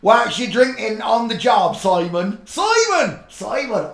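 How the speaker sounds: loud, high laughing yell; mock shout. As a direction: bellow at Simon through laughter. Shouting mock question through laughter.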